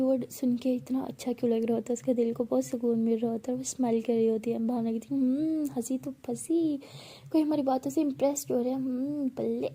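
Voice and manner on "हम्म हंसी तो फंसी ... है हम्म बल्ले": teasing. Acted. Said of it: "तो भावना ऐसे बोल रही होती है".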